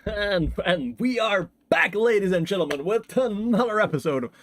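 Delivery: YouTuber voice. Acted. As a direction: announce the episode like an energetic YouTuber. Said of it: "enough YouTuber voice".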